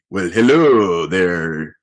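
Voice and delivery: slow, drawn-out, badly faked Australian accent as Thor; hammed-up Aussie charm, stretching each word. Host mimics Chris Hemsworth as Thor greeting a woman, in a bad Australian accent. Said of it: "that's a horrible Australian accent".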